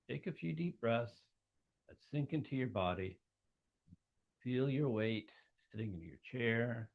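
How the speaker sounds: unhurried, with long pauses between phrases; measured, spacious guiding voice; guided meditation. Acted. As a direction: gently lead listeners into a visualization. Leads a guided visualization.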